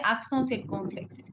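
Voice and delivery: accent circonflexe with the t silent; French accent circonflexe, final t of accent left unpronounced; no liaison. Shown as a demonstration. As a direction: say accent circonflexe in French, "aksawn seer-kon-flex". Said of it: "then we don't pronounce. Then we say".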